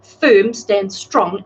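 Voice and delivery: slow, weighty encouragement; emphatic. Acted. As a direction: plant each word. Encouraging the client.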